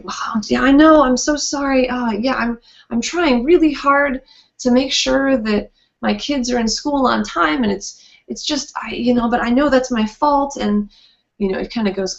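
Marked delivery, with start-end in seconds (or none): 0.0-10.6 over-apologetic. Retold or imitated.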